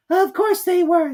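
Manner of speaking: high, slow, drawn-out mouse voice; slow squeaky Dormouse. A narrator's reading. Dormouse answering Alice after long thought.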